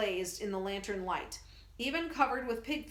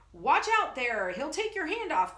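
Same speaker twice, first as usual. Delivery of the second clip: louder, higher startled warning; frightened cry; 6 semitones higher, 6 dB louder than usual. Acted. Young soldier backing away from the crate, frightened cry. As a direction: yelp it as you back away. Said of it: "cries a young soldier".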